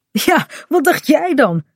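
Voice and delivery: high, amused retort; laughing. A narrator's reading. Kaat teases the winded Bink, laughing. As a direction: say it with a light laugh in the voice. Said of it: "zegt Kaat lachend".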